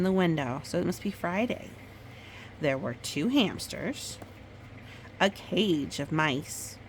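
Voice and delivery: gentle storybook read-aloud; reading to a child. Acted. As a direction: tell it like a bedtime story. Mother reads picture book aloud.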